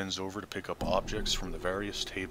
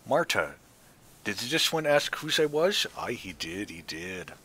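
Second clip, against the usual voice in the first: crone talking to herself; 3 semitones higher, 4 dB louder than usual. Acted. Marta asks and answers herself.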